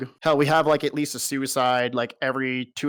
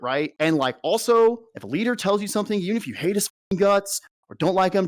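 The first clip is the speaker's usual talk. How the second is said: lightly mocking officer, pitched up at first; mimicked colonel pep talk; 4 semitones higher than usual. Colonel lecturing troops on their attitude, mildly mocking imitation.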